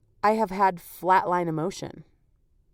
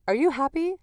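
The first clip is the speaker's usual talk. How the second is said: put-on quoting toddler son; 5 semitones higher than usual. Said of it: "he's like".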